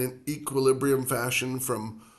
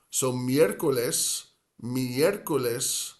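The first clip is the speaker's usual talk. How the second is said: miércoles stressed on the é, MIÉR-co-les, slow; slower than usual. Shown as a demonstration. Teacher showing where miércoles is stressed, slow. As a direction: lean on the first e of miércoles. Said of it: "has the accent".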